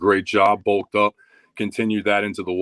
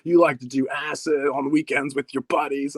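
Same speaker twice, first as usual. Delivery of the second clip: higher-pitched jeering retort; mocking taunt; 5 semitones higher than usual. Old training partner making fun of him, mocking. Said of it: "he was, like, making fun of me".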